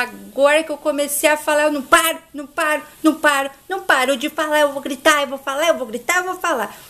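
acted stubborn, quick-fire repetition; mock-defiant nagging that keeps going; defiant rant. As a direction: pile up refusals without a break. Márcia refusing to shut up.

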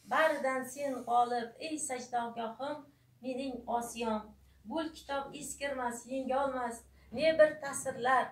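measured, rhythmic verse with a pause after each line; poetry recitation. Acted. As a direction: recite an ode line by line, sinking on the closing words. Recites her poem about Asia.

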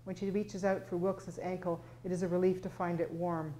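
steady, even reading of a novel; measured literary reading voice; story narration. A narrator's reading. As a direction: read it like an author at a launch. Author reads second scene aloud.

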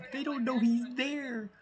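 real amused giggle; laughing. Real, not acted. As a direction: laugh through the words. Laughing at sneaky teammate.

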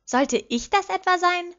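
high, loud, slow shocked gasp of a question; outraged disbelief; shocked girlfriend asking about herself. A narrator's reading. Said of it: "vollkommen schockiert".

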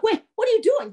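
high-pitched startled protest; alarmed ghost. Acted. Severed skull questions the young man, high alarmed protest.

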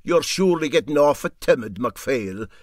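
lightly voiced old captain ribbing a friend; teasing captain. Parahandy teases MacPhail for being timid, lightly voiced.

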